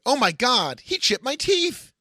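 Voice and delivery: high, hammy wail of pain; hammed-up victim. Actor reading a scary movie line, hammed-up high wail. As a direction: overplay the hurt victim.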